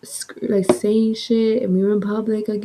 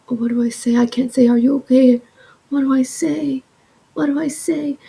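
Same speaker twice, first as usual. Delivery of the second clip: higher-pitched mild nervous fretting; anxious, nervous; 5 semitones higher than usual. Retold or imitated. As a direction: act out rising anxiety, pitch climbing. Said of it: "my anxiety's going up".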